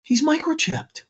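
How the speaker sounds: high-pitched amazed cry, God stretched out; retold scream. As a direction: cry out in high, drawn-out disbelief. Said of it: "you literally hear her scream".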